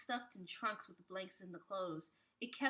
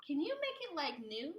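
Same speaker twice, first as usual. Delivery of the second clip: put-on child asking; 6 semitones higher than usual. A narrator's reading. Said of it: "she asked her mother".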